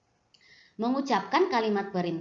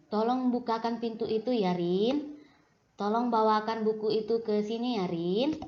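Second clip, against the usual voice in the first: polite request; 3 semitones higher than usual. Shown as a demonstration. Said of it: "harus dengan sopan dan lembut".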